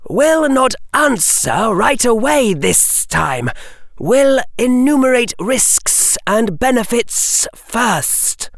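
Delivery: high, slow serpent hiss; slow hypnotic serpent hiss. A narrator's reading. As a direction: hiss it, measured and careful. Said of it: "hissed Harry".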